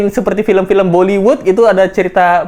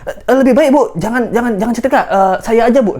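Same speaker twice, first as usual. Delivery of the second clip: eager aide pleading; 4 semitones higher than usual. Retold or imitated. Yosua urges madam to stop.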